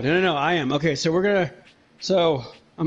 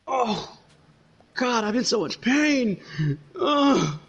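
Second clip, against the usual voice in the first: near tears, voice strained with pain; teary with pain; 4 semitones higher, slower than usual. Real, not acted. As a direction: hold back tears from the ache. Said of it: "I'm literally tearing up over here".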